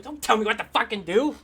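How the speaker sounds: indignant mock outburst; indignant turtle. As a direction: act out an annoyed character refusing orders. Turtle angrily rebuffs the player.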